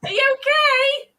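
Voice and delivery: eager hello to the guests; excited. Real, not acted. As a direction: keep the greeting's thrill going. Follow-up to excited greeting.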